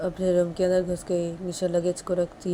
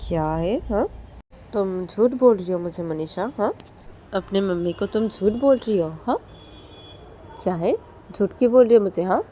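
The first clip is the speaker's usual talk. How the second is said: scolding mother; 2 semitones higher, 3 dB louder than usual. Acted. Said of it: "तो तभी मनीषा की mummy बोलती कि".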